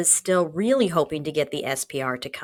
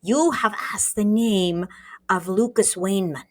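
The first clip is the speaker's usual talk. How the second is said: a lightly put-on German-ish villain accent; a mild comic-book villain voice, attempting German; superhero villain accent. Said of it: "Now I'm just doing superhero villain accent".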